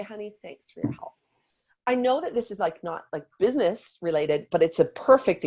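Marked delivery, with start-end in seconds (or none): 0.0-1.1 soft, higher-pitched appeasing voice; gentle put-on gratitude, much quieter; acted sweet thanks. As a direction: thank a husband softly and sweetly. Acting out sweet thanks to husband.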